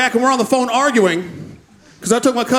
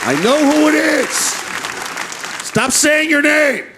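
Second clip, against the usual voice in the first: exasperated; 5 semitones higher, slower than usual. Acted. Exasperated reply to voicemail.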